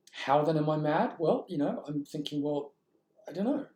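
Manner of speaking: mock bewilderment. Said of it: "I'm just kind of confused".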